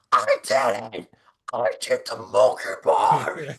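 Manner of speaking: lightly voiced proud little girl; excited little girl. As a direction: announce it like a kid who just did the monkey bars. Little girl quoted telling her dad.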